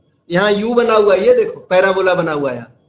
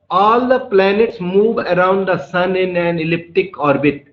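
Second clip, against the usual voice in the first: slow, word-by-word dictation pace; much slower than usual. Shown as a demonstration. Teacher dictating the law to students, slow and measured. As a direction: spell it out slowly so students can write. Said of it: "dictating a definition slowly".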